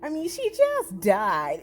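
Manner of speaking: slow, flat mock-solemn; casual mock tone; deadpan imitation. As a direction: say it matter-of-fact, slowly. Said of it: "It was just like that".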